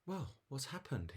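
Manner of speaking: put-on high-pitched snake parent checking on a child; big snake. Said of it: "the big snake says".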